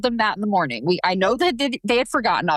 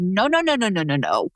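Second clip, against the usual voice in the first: gentle refusal. Retold or imitated. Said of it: "And I said".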